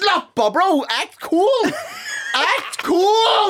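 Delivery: very high, drawn-out tearful wail; hammed-up crying shriek with laughter in it; mock howling wail. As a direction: imitate someone bawling, stretching the last word. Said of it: "så står han og hylgriner".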